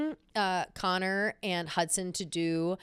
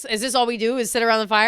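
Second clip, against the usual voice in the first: antsy; 2 semitones higher, 8 dB louder, faster than usual. Retold or imitated. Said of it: "Ilya's, like, antsy".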